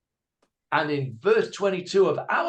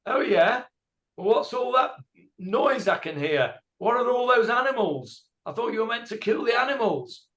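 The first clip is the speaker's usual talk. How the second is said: higher, mock-incredulous questioning; higher teasing challenge to a guilty king; suspicious Samuel; 5 semitones higher than usual. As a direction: play Samuel catching him out, pitched up. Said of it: "And Shmuel says".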